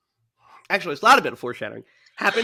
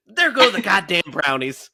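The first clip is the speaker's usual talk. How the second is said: dejected quote; 2 semitones higher, 4 dB louder than usual. Retold or imitated. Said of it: "So dejected".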